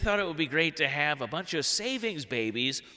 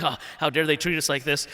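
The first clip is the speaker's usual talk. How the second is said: fuming. Retold or imitated. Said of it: "I'm fuming".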